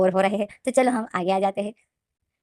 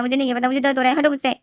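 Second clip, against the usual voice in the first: higher and louder, pushing him off; Wing yells at Lenjan to get off him, upset and loud; upset shout; 5 semitones higher, 5 dB louder than usual. Acted. Wing pushes Lenjan away.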